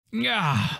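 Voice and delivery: high falling groan of annoyance; exasperated mock "gah"; frustrated groan. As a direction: groan as if caught out. Mock frustration at catching himself.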